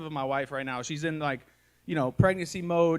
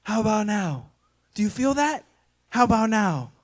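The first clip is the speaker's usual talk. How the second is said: higher, eager, pressing questions; eager wife; 5 semitones higher, 3 dB louder than usual. Retold or imitated. Pregnant wife presses husband's hand to her belly, eagerly asking. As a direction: keep asking, excited and hopeful. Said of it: "She's like".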